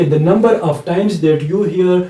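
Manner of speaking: slow, deliberate teaching of the rule; slow explanation. Shown as a demonstration. Teacher reciting a rule slowly to students. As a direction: spell out the rule word by word. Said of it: "ابھی میں نے آپ کو یہ بتا دیا".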